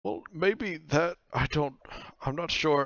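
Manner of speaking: hesitant cloak. Acted. GM voices the cloak.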